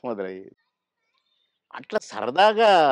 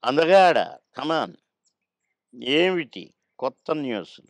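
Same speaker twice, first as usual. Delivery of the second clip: higher-pitched impression of a senior actor; Akkineni; 3 semitones higher, 4 dB louder, slower than usual. Comedian showing how a senior actor greeted him by nickname, voiced impression. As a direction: call out loud and high, then draw out the question. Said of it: "Akkineni గారు నన్ను ఎప్పుడు అందగాడనే పిలిచేది".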